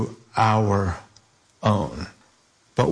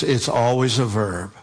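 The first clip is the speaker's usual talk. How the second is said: always a verb, with weight on verb; an emphatic point for the congregation, stressing verb; for emphasis; 2 semitones lower than usual. Shown as a demonstration. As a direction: lean on verb to drive it home. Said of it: "and just for emphasis".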